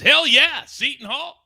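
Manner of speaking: high excited yell, easing in volume; high-pitched acted whoop; hyped-up cheer. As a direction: cheer it like a thrilled fan. Acts out a viewer's chat message.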